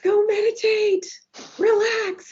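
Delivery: high, sing-song go meditate; teasing coworkers voice; mock soothing coworkers. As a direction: imitate coworkers urging calm. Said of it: "Everybody'd be like".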